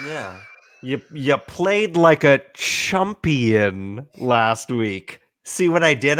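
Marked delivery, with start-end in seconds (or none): 0.8-4.7 chumpion said slowly with a clear chump sound; chumpion pun. Shown as a demonstration. Teasing a league rival, slow chumpion pun. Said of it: "I put chump in champion".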